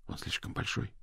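soft breathy whisper; whispered confidence. A narrator's reading. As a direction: keep it secret from the crowd. Secret plan told aside.

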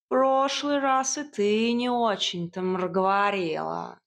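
snide cat. A narrator's reading. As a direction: needle her snidely. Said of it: "с ехидством отозвался кот". (ехидный голос кота)

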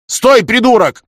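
very high, loud yell at the driver; yelling stop. A narrator's reading. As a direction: scream it in alarm. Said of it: "закричал он извозчику".

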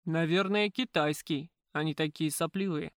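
lightly voiced low man's grumble; a hint of a deep-voiced bystander; booming bass. A narrator's reading. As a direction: unshaven man in the crowd, mild bass grumble. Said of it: "басил небритый мужчина".

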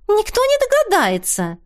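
высокое бодрое восклицание; выше, с весёлой уверенностью; оптимистично. A narrator's reading. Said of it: "оптимистично воскликнула Теодора". (Теодора оптимистично восклицает)

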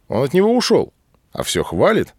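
mild narrated surprise; puzzled question. A narrator's reading. Loris-Melikov is puzzled that Gamzala still praises Shamil, with a high surprised lift.

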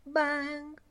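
high, weakened bell clang; small ringing vocal clang; feeble bell imitation. A narrator's reading. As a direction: imitate a bell struck half-heartedly. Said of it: "ma debolmente".

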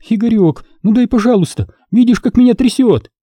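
put-on high, pleading girl's voice; high whining plea, shaking for a fix; begging girl. A narrator's reading. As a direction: beg him desperately.

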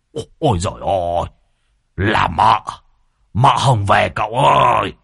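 fast, rising panicked cry ending in a shout. A narrator's reading. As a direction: yelp like a scared cat. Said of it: "thì tái mặt, cứ như là mèo bị kẹp đuôi".

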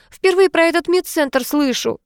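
high indignant shout; a touch of a narrated yell. A narrator's reading. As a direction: yell the denial at him. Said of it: "закричала жена".

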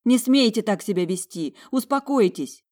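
high, loud pleading shout; high, loud frantic shout. Acted. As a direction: yell at them to calm down, voice climbing. Girl shouting at fighting men.

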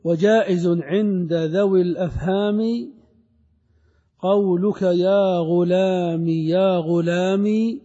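slow measured chanting of the verse; drawn-out scholarly verse reading; verse recitation. Acted. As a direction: recite the poem line slowly, savouring it.

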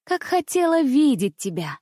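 put-on quick, bright girlish chatter; a little princess gushing at her friend. A narrator's reading. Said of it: "трещала княжна". (щебечущая княжна)

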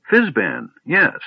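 put-on high, fussy old wizard; lightly voiced doddering old man.

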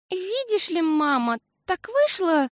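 put-on high, hesitant child voice; stall, embarrassed. A narrator's reading. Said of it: "смутилась Фиасоль". (смущённо, запинаясь)

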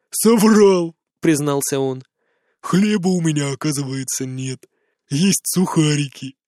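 put-on drunk joking. A narrator's reading.

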